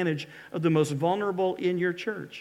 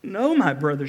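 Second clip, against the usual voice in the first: pleading cry; 4 dB louder than usual. Acted. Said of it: "she cried".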